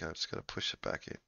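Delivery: fast whispered aside. Acted. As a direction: mutter it under the breath quickly. Mock prolapse scene aside.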